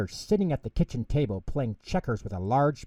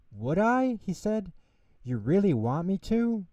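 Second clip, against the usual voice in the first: can hardly believe his luck; delighted surprise; 9 semitones higher than usual. Acted. Mouse invited to tea, high and overjoyed.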